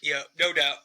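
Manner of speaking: talking through a yawn; words stretched by a yawn. Real, not acted. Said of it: "I'm yawning like a bitch".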